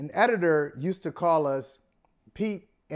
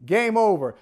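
louder, higher play-by-play call; frantic mock sports commentary; 5 semitones higher, 7 dB louder, slower than usual. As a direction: call the shot like a broadcaster. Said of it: "And he says".

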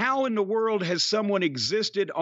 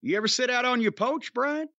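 playful Southern drawn "poach" for porch; Southern accent; 4 semitones higher than usual. Pretend. Host asking Brian about his porch, Southern accent. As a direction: ask it with a put-on Southern accent. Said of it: "what this accent is you're doing".

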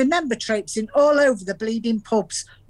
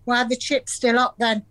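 sarcastic retort; 5 semitones higher than usual. Retold or imitated. Gran retorts to husband's lie.

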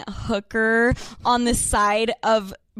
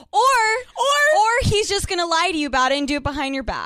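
rapid rant; 5 semitones higher, 4 dB louder, faster than usual. Real, not acted. Ranting about lying boyfriends.

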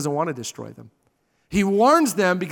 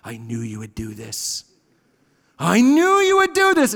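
mock frustration. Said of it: "gets all mad".

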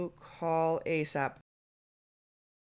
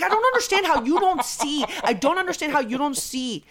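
exasperated dad; 7 semitones higher than usual. Retold or imitated. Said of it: "He'd get so frustrated".

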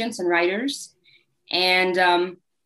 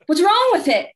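sudden high, loud alarmed husband; hammed-up worried gasp at the ring; a husband fearing his diamond is fake, mock panicked; 11 semitones higher, 4 dB louder than usual. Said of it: "And he was like".

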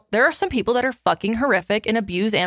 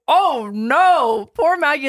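higher, cooing oh no for the poor dog; mock pity; 6 semitones higher, 3 dB louder, much slower than usual. Retelling her reaction to her scared dog, cooing. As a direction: coo over the dog in sympathy. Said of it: "I was like".

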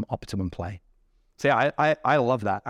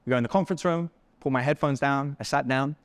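ordinary talk, nothing marked

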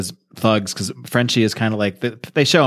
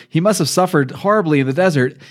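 swooning woman; 7 semitones higher than usual. Retold or imitated. Friend mocks the heroine swooning over corpse, high dreamy swoon. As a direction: sigh it out like a lovestruck heroine.

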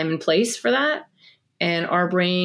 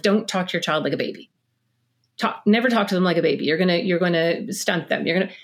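preachy expert advice. Retold or imitated. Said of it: "I remember this movement of, like".

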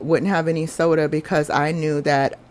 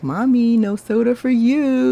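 put-on high, loud bossy child scolding mommy; lightly voiced little daughter telling mom no; little girl voice; 7 semitones higher, 4 dB louder than usual. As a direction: play the youngest kid wagging a finger.

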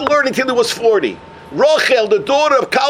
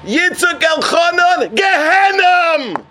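high, drawn-out proclamation; heavenly voice pronouncing doom; 7 semitones higher, slower than usual. Acted. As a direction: call out the sentence in long, ringing words. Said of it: "he hears a voice".

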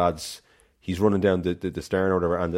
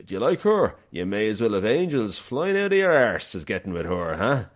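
put-on Irish accent. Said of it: "he goes".

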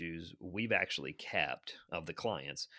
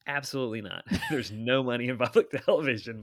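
retold flat-out no, breaking into laughter, louder; laughing mock refusal; 5 semitones higher, 6 dB louder than usual. Buddy answering about money in public television, retold with amused laughter. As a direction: imitate a blunt refusal while laughing at it.

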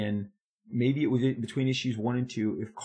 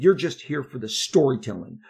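retold yell; 5 dB louder than usual. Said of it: "he screams at me".

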